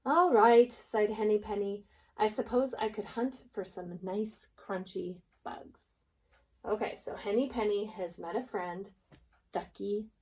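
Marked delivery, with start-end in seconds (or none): 0.1-5.8 lively storybook narration for a class; story reading to kids. Acted. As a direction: read aloud like a teacher sharing a picture book. Reading a picture book to children.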